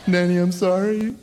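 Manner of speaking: put-on a child pleading her giant-cat story; apologetic little girl. Kid voice apologising with excuse.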